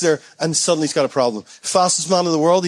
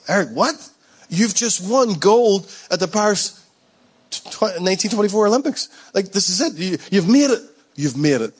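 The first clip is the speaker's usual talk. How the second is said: disbelieving protest; 4 semitones higher than usual. Acted. Acts disbelieving reaction to champion.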